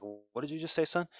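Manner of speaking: lightly voiced principal, pitch rising; a hint of a stern principal. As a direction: challenge a pupil as a principal would. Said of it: "the principal's just like".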